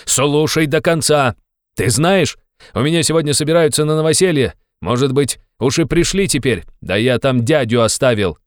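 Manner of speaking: high, loud insistent invitation; loud harangue. Acted. Razumikhin loudly insisting Raskolnikov come to his party.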